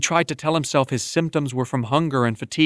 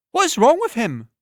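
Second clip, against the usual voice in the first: tavern woman; 10 semitones higher than usual. Acted. Tavern woman confronts a boy in the doorway, blunt. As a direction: call out to the sick boy sharply.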